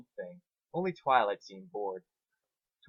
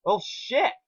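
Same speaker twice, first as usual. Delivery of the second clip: frustrated curse; 11 semitones higher, 5 dB louder than usual. Acted.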